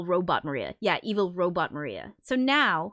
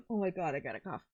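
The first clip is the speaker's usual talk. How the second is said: mock quote; 8 dB quieter, faster than usual. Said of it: "At first only says".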